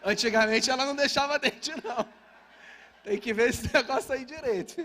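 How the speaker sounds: hammed-up complaint about modern tooth fairies; mock indignation. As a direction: play up fake outrage at the fairy. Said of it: "Eu pensando".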